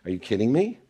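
hushed, half-voiced private thought, fading to a breath; scoffing under the breath at the doctor's question; inner scoff. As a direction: mutter it to yourself smugly. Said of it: "I'm thinking".

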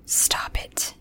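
soft unvoiced whisper. A narrator's reading. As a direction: barely breathe the words. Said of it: "she whispered".

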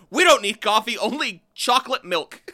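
high, loud mock voice of a clueless donut boss; mock founder. Mocking the donut shop that skips coffee, hammed-up high voice. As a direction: play the donut boss who forgets coffee.

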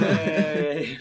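high, loud laughing cheer; laughing mock cheer. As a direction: whoop it out. Cheering at the idea.

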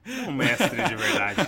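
said through a laugh. Real, not acted. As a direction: laugh while you say it. Rindo da história de conversão. (rindo enquanto fala)

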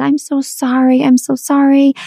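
put-on high, pleading apology to a child. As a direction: beg forgiveness in a high, guilty voice. Apologizing to sad daughter.

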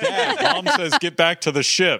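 high-pitched robot voice with a laugh. Retold or imitated. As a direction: play the movie robot, amped up. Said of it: "You do the robot voice".

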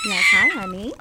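put-on very high, loud baby-talk coo; cooing to baby ant. Nursemaid greets a baby ant in loud, high baby talk. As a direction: squeal sweetly at the little one.

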